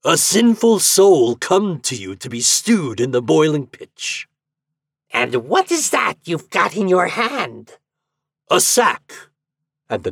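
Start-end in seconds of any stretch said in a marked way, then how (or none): 0.0-4.3 raised, loud soldier's answer; higher voice, projected until the last word; calling back. A narrator's reading. Soldier answers the shouting sentry. 5.1-7.8 high, put-on devil voice; high-pitched demonic interrogation; devil sentry. A narrator's reading. Devil sentry questions the soldier. 8.5-9.1 short, loud, high reply; raised soldier's voice; calling back. A narrator's reading. Soldier calls back to sentry.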